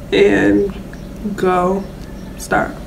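talking while brushing teeth; speaking around a toothbrush; toothbrush in mouth. Real, not acted. Seen 0: Toothbrush at her lips from +0.4, brushing continues afterwards.

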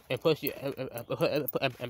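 stuck repeating uh; real stutter, caught on uh. Real, not acted. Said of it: "oh my God, I'm stuttering".

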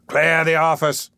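high, slow, forceful order; commanding shout. A narrator's reading. Magistrate interrupting the old gentleman, commanding. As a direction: draw out the order over the protest.

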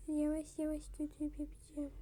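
soft whisper while concentrating; whispered to herself. Real, not acted. Vlogger concentrating on the tape, whispered. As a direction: breathe it out as you work carefully. Working carefully, talking to self.

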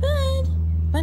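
high loud call across the house. Real, not acted. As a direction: shout for the missing dog. Calling for pet.

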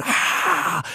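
hushed, airy mock scream; imitated crowd scream. Comic imitating the audience going wild, mock crowd scream. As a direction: mimic a screaming crowd without full voice. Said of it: "people screaming".

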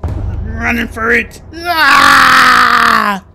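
loud, slow panicked yell. Real, not acted. Player flees from the queen, yelling in panic. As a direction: yell in fear as you run.

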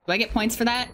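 rising question; wondering if it counts; hopeful query; asking. Real, not acted. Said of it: "I do get points for that".

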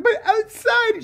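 very high, slow, dazed voice; mock timid heroine. Mocking the heroine pointing outside, high and slow. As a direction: stretch it out high and lost.

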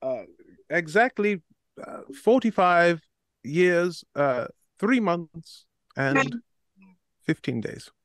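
pompous aristocrat, lightly voiced; a self-important noble introducing himself; posh noble character. Plays a stuffy noble character.

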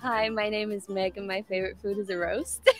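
lightly done American self-introduction; attempted American accent. Shown as a demonstration. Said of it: "give us your best American accent".

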